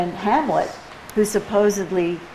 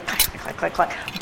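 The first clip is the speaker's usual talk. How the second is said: metronome clack imitation; 5 dB quieter than usual. Shown as a demonstration. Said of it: "the metronome is busy going".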